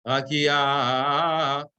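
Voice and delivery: "Akia" sung with the accent in the wrong place; wrong accent demo. Shown as a demonstration. Teacher demonstrating a wrong accent to students. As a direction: show how "Akia" sounds off with the wrong stress. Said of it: "doesn't sound like really right".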